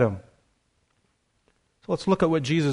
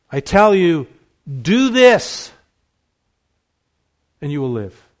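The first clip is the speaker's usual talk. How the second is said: 1 mock command; 4 dB louder than usual. Preacher voicing the demand Jesus never made, loud. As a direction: bark it like a taskmaster.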